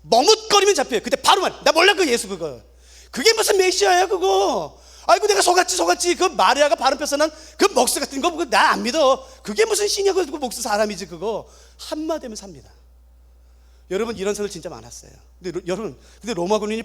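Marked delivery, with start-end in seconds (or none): 1.6-11.5 mocking denial. Apostate mocking denial acted.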